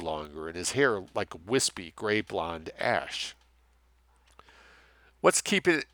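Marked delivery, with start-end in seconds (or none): 5.2-5.9 tense question. Acted. Character quote, sharp pitch jump.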